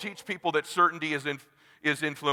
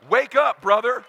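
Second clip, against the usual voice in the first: a sharp, louder bark upward; wake-up call; 4 semitones higher, 4 dB louder than usual. Real, not acted. Speaker shouting at a too-casual audience member, sharp loud call. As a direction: jolt the listener awake. Calling the room awake.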